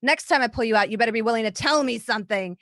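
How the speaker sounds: irritated threat. Acted. Torturer woman threatening her dunked prisoner, irritated. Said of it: "she's like".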